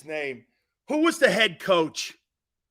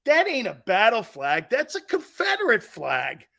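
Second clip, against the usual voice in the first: animated, indignant correction; lightly acted old-timer's objection; indignant grandfather; 3 semitones higher than usual. Grandfather correcting his grandson about the flag, mildly indignant.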